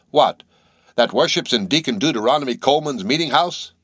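put-on scandalised old deacon; incredulous. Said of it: "cried Bildad".

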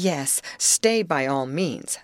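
slow and distracted, mind elsewhere; vague, slow, absent reply. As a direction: say it while half reading a letter. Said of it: "in rather absent-minded tones".

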